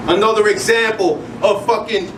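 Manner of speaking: rhythmic spoken word line cut short; spoken word line that breaks off; slam poetry recital. Acted. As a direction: start the line, then stop short. Performs a spoken word poem.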